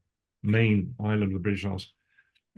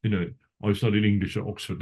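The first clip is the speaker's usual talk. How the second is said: put-on a mild send-up of a lofty "dear boy" academic, unhurried; posh Oxford type. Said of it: "the guy comes".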